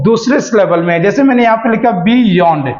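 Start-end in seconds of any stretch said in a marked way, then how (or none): 2.0-2.7 "beyond" said in two parts, bee-yond; split into syllables. Shown as a demonstration. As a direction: separate "beyond" before the y sound. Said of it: "बी एक आपका syllable है". ("beyond" को बी-यॉन्ड, दो हिस्सों में)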